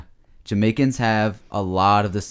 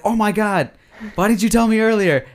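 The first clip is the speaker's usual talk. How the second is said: imitating a flustered mom; 9 semitones higher than usual. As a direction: panic like a mom caught unprepared. Mom voiced in a retold story.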